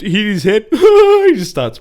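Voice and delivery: mock guy laughing as he retells the fall; laughing while telling. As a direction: blurt it out cracking up. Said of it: "he goes".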